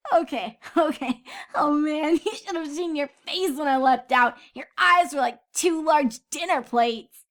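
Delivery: giggling through the words in a high filly voice; can barely stop laughing at her friend. Acted. Scootaloo laughing at scared Sweetie Belle, giggly and high. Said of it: "howling in laughter".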